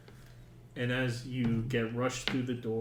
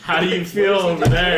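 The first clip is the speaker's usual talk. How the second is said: put-on girlfriend voice; 6 semitones higher, 14 dB louder, faster than usual. GM voicing girlfriend character.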